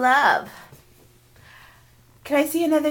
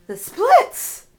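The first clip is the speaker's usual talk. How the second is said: excited gasp; 4 semitones higher, 5 dB louder, much slower than usual. Real, not acted. Parent amazed by splits.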